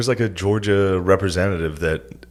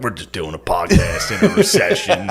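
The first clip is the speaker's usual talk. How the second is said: high, laughing mock of a half-asleep friend; mock sleepy rambling; 10 semitones higher than usual. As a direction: parrot him with a laugh, pitched up. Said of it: "You woke up and were like".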